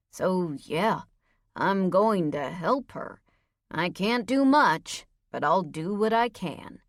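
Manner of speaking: a hint of a stubborn patrolman, measured and deliberate; gruff officer, defensive. Voices Reyes answering firmly.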